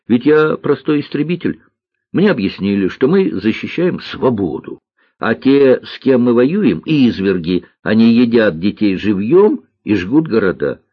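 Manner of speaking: lightly voiced boy pilot explaining earnestly; маленький истребитель. Маленький лётчик повторяет объяснения. (мальчик убеждённо объясняет)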